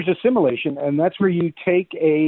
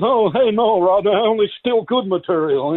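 lightly voiced heckled-comic comeback, pitched up; Rodney Dangerfield; 5 semitones higher than usual. Comedian retelling his comeback to the comic, in that comic's voice. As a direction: toss it back in the comic's own voice. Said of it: "didn't you do it as Rodney's voice?".

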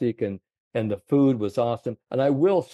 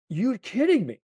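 much higher, amazed Scottish caddy; 12 semitones higher than usual. Retold or imitated. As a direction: squeak it out like the stunned caddy. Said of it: "the way he said it".

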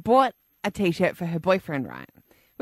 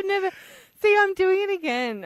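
squeaky put-on voice; 11 semitones higher than usual. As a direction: fake high squeaky voice. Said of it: "I'm putting a voice on".

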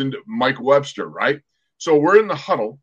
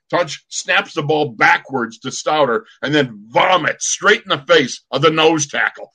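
ordinary talk, nothing marked

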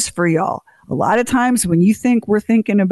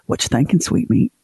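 lightly voiced husband, lower and cooing; a hint of a lovey husband nuzzling; mock husband; 6 semitones lower than usual. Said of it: "And he'll go".

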